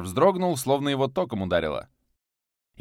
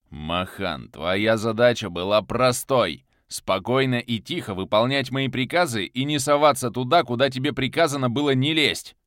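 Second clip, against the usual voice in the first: louder, cold and spiteful rebuke; cold fury; 3 semitones higher, 5 dB louder than usual. Acted. Viktor scolds Makhan for meddling, cold and spiteful. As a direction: lay down the law with icy malice. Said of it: "Холодным голосом, полным злобы".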